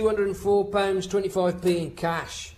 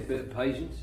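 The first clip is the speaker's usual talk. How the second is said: softer, lower "patience" dragged out; mocking repeat; 6 semitones lower, 6 dB quieter, faster than usual. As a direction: repeat it low and quietly as a taunt. Guard repeats his rebuke.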